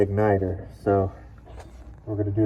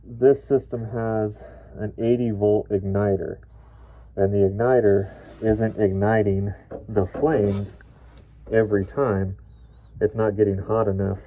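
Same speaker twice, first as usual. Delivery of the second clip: muffled voice. Real, not acted. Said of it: "my voice is a little muffled. I do have my respirator on".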